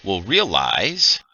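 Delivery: slow, deliberate scene-setting; measured game master voice; game master narration. A narrator's reading. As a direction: reveal the findings slowly to the players.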